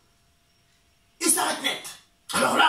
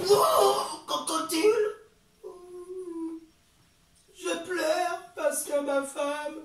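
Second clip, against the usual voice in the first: whiny monkey; 6 semitones higher than usual. Acted. Monkey tells crocodile his trouble.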